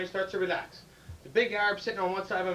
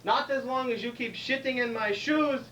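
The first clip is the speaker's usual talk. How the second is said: drawn-out, measured punchline; slow, deliberate comeback; slow deliberate reply; 3 semitones higher, slower than usual. Acted. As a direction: stretch it out, savoring the payback. Jewish passenger delivers slow punchline.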